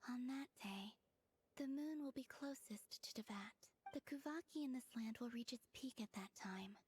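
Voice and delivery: breathy, hushed murmur throughout; hushed whisper. Acted. Soft whispered voice.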